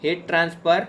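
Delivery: slow, spelled-out title for students to write down; measured teacher dictation pace. Shown as a demonstration. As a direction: dictate the heading slowly so they can copy it. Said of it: "आप title डाल दो".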